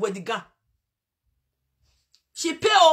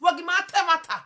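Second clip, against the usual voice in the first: imitated pleading shout; 7 semitones higher, 8 dB louder than usual. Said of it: "I beg you say".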